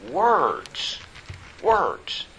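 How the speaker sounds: "words" said twice, high and falling, each alone; emphasis on WORDS. Real, not acted. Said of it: "I want to emphasize".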